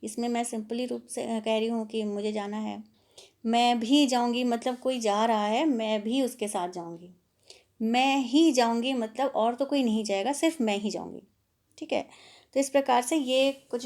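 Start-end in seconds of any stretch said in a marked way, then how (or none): 3.5-4.4 भी pushed out louder; louder "मैं भी जाऊँगी" with भी standing out; stress on भी. Shown as a demonstration. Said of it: "बल डालना". 7.8-8.9 ही raised and louder; louder "मैं ही जाऊँगी" with ही rising; stress on ही. Shown as a demonstration. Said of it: "बल डालना".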